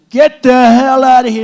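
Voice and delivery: loud barked order at the heckler; retold scream. Rally crowd, ordering a loud protester out, shouting. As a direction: yell him out of the room. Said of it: "And I started screaming".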